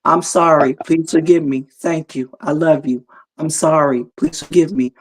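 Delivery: repeating mantra flatly. Shown as a demonstration. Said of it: "Repeat it over and over".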